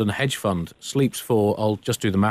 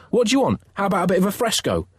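put-on eager young artist; 7 semitones higher, faster than usual. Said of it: "replied Michelangelo".

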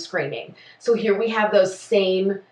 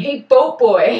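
slow, louder jeering call; mock taunt; 3 semitones higher, 5 dB louder, slower than usual. Farmer jeers at a port worker, mock taunt. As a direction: drag out a playful insult. Acting out port and farm rivalry.

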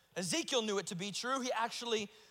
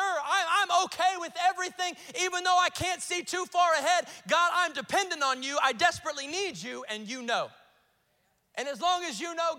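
preach; 3 semitones higher, 6 dB louder than usual. Real, not acted. Preaching builds to full force.

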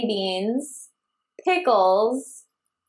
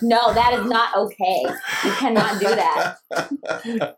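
firm refusal; slower than usual. Retold or imitated. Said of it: "I'm like".

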